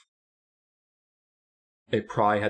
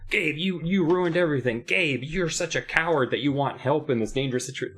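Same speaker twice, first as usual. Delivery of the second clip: lightly mimicked whiny complaint, pitched higher; obnoxious girl; 5 semitones higher than usual. Reviewer mimics Sari blaming Gabe, obnoxious mock complaint. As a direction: imitate her scolding in a higher voice. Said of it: "every point where she's just like".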